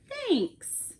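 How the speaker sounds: a high, drawn-out reluctant thanks; Bear's thanks. Acted. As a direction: let it fall away, a bit glum. Bear's gloomy reply to guest.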